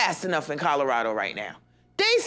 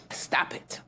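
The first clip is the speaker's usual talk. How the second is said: ordinary talk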